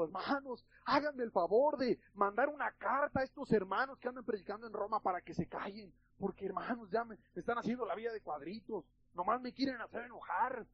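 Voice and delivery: mock whiny complaint to the brothers; complaining. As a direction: grumble as if fed up in jail. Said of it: "una actitud de queja diciendo".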